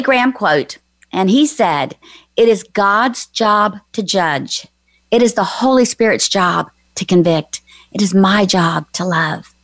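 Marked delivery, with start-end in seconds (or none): 2.4-9.5 repeating for note-taking. Shown as a demonstration. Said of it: "say that quote again".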